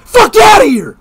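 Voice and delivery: angry, laughing shouts; shouting back. Real, not acted. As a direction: yell him off. Heated argument, shouting back.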